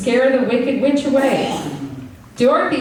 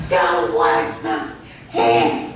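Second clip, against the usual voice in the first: low witch voice; 14 semitones lower, slower than usual. Acted. Scared witch running away.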